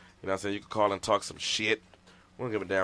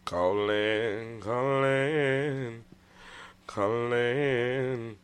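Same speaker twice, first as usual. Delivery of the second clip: hype call; 2 semitones higher, much slower than usual. Acted. Hyping listeners to call.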